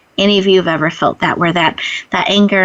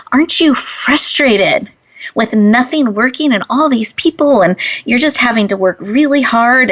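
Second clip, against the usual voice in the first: frustrated; 3 semitones higher than usual. Retold or imitated. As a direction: imitate a frustrated shopper wanting an audience. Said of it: "she was very frustrated".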